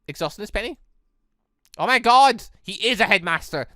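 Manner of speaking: ordinary talk, nothing marked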